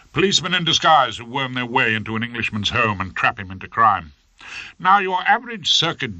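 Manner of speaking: booming barrister addressing the judge; courtroom oratory. Acted. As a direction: argue it grandly to the bench. Rumpole rehearsing courtroom speech.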